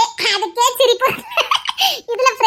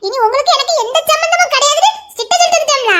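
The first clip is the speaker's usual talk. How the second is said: laughing boast; 5 semitones higher, faster than usual. Acted. Wife proudly boasts, laughing.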